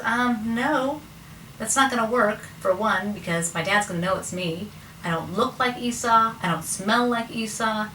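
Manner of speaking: lightly acted reluctant son; reluctant objection. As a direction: balk at the plan, pitch lifted. Jacob balking at his mother's scheme.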